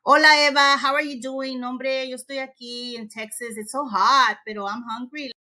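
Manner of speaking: breezy chat mixing Spanish and English; code-switching demo. Shown as a demonstration. Teacher demonstrating translanguaging to colleagues, chatty code-switching. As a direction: switch freely between Spanish and English mid-sentence. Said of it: "So for example".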